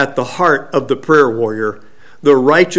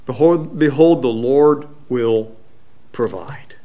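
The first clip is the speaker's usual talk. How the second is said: low, soft, trailing to a whisper; calming reassurance; 4 semitones lower, 6 dB quieter than usual. Retold or imitated. Believers calming each other, soft and low. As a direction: quietly hush someone's worry, fading on the last word. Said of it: "We should call, say".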